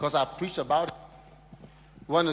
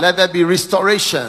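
fervent prayer; 3 semitones higher, 11 dB louder than usual. Real, not acted.

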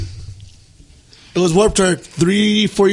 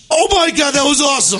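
delighted high exclamation; retold gasp of delight; excited cheer; 7 semitones higher than usual. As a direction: cheer like you just saw the best hit ever. Cheering a great pit moment.

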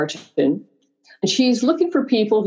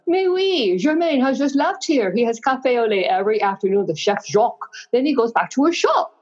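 put-on French accent; 5 semitones higher than usual. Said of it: "She had a thick French accent".

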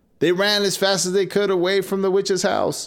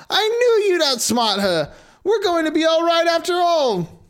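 joyful; 11 semitones higher than usual. Acted. Hansel happy after escape.

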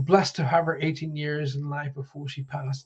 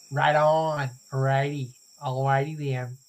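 amateur attempt at an American accent. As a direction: have a go at casual American catchphrases. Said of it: "as bad as doing American accents".

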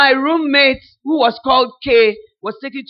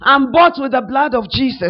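imitating Brother Doug; 4 dB louder than usual. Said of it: "he started to say".

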